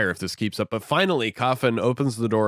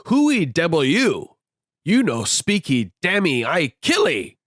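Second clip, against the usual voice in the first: mock pidgin threat; 7 semitones higher, 4 dB louder, slower than usual. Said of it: "Queequeg is like".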